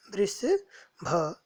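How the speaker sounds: "वृषभ" stretched out very slowly, syllable by syllable, rising at the end; slow teaching model of "वृषभ"; slow careful repeat. Shown as a demonstration. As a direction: draw out "वृषभ" so students can copy it. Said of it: "पदानि उच्चार्य".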